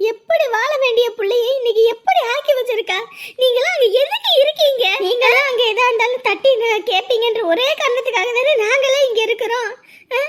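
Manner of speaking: upset grandmother's angry rebuke; angry scolding. Acted. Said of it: "கோவப்படாதீங்கம்மா".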